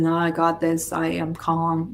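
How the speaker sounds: dismissive, half-hearted affirmation, a little low; eye-rolling. Shown as a demonstration. Coach showing the insincere way to affirm, eye-rolling. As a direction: toss it off like you don't mean it. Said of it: "You're not just rolling your eyes".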